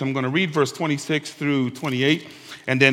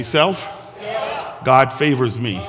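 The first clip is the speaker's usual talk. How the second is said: said like you mean it; slower than usual. Shown as a demonstration. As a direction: proclaim it with conviction. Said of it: "you gotta say it like you mean it".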